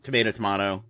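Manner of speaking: tomato as to-MAY-to then to-MAH-to; two pronunciations. Shown as a demonstration. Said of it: "different parts of the country say differently".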